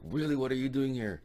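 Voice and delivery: high, insistent questioning; mock interrogation. Captor repeats question at gunpoint.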